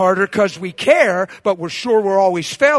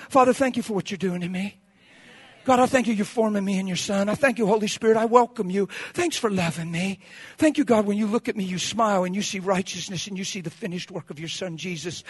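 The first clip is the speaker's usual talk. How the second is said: grateful prayer. Shown as a demonstration. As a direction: pray it gently and intimately. Models a thankful morning prayer.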